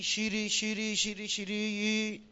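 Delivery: شیری، شیری broken into halting syllables, repeating each chunk; choppy syllable reading. Shown as a demonstration. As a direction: stumble through شیری bit by bit like a struggling child reader. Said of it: "ولی نمیگه شی".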